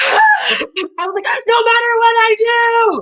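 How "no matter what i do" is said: screaming, very high-pitched and very slow. Retelling screaming in a superior's face: imitating own screaming. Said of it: "I'm screaming at him".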